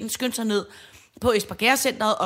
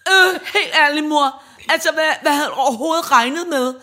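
louder, higher scolding of mom; indignant teen; 5 semitones higher, 7 dB louder than usual. Retold or imitated. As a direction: tell mom off like an outraged teenager. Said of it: "så siger hun til min mor".

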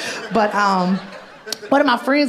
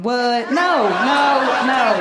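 higher, louder disbelieving no; shocked refusal; 4 semitones higher, 4 dB louder, much slower than usual. Real, not acted. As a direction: recoil in disbelief. Shocked reaction to cotton.

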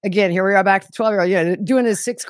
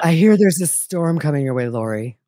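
lightly voiced creepy monotone; a hint of a menacing prophet; mild creepy warning; Chad voice; 2 semitones lower than usual. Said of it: "monotone and creepy".

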